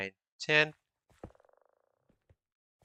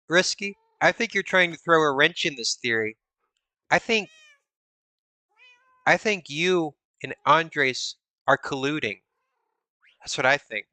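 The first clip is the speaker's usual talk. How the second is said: mock accusing. Accusing a viewer playfully.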